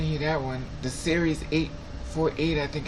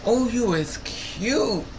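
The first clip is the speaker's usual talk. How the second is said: slow, higher sing-song coo at a cute guy; cooing baby talk; 6 semitones higher, much slower than usual. Retold or imitated. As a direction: drawl it out like talking to a toddler. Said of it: "I keep saying".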